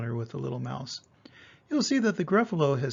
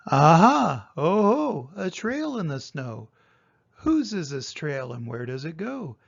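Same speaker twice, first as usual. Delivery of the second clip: excited discovery; 4 dB louder than usual. Acted. Child finds a trail, lightly excited. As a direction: pounce on the clue like a brave little monster. Child voiced, loud start.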